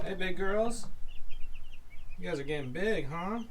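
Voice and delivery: high, coaxing calls to the animals; pet talk. Real, not acted. Calling the big girls and P over, high coaxing pet voice.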